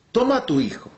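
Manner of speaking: high, proclaiming voice of God; God commanding Abraham. Acted. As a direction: call it out as God giving an order. Acts God in imagined dialogue.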